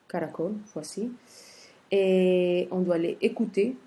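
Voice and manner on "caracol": softer caracol with "col" stressed; stress on last syllable. Shown as a demonstration. Teacher repeats the example once more, final stress on caracol. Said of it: "c'est la dernière syllabe".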